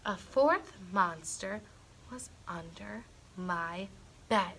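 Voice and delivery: dropping to a whisper for the spooky part; hushed reveal. A narrator's reading. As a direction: whisper it like a secret at bedtime.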